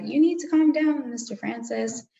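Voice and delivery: teacher telling Mister Francis to calm down, loud and firm; firm order. Retold or imitated. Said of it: "And then she's like".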